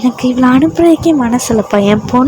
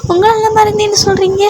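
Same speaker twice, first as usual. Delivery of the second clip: put-on higher, earnest girl explaining; innocent heroine; 5 semitones higher than usual. The heroine tells her husband she fell from the cliff, innocently high. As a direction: protest sweetly, voice raised.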